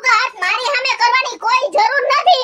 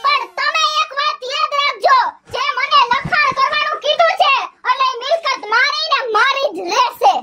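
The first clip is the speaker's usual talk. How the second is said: defiant wife; 4 semitones higher than usual. Acted.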